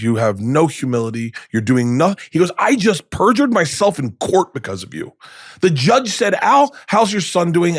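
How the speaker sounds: imitating his dad's scolding rant; stern dad lecture. Dad scolds son on his birthday, mock stern.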